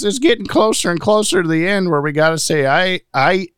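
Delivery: lightly voiced frontier prospector farewell; old-timey prospector voice. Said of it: "Old timey prospector voice".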